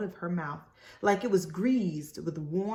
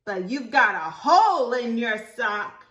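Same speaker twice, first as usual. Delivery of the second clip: put-on higher, louder little girl talk; child voice; 4 semitones higher, 7 dB louder than usual. Libby telling Ruthie Mae about her sock, high childish. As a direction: chirp it out innocently.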